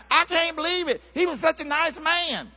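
high-pitched mock disbelief; shocked neighbour. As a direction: exclaim it high, as an astonished neighbour. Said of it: "the neighbors will come out".

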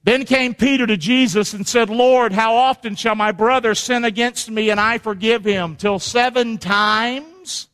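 scripture reading. Acted. Preacher reading Peter's question to Jesus for the congregation, declamatory. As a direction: read it out ringingly, stretching the final question. Reads the Bible passage aloud.

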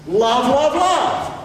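love said three times, stepping up in pitch; rising triple repetition. Shown as a demonstration. Preacher shows what Scripture does not say, love climbing in threes.

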